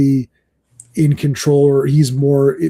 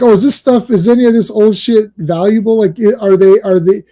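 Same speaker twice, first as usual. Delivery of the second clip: attempted Cockney; 4 semitones higher, 3 dB louder than usual. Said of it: "thick kinda, like, uh, Cockney".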